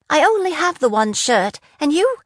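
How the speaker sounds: put-on a touch of a girl's protest; young woman cut off mid-complaint; indignant scold. A narrator's reading. Jenna scolds over her shirt.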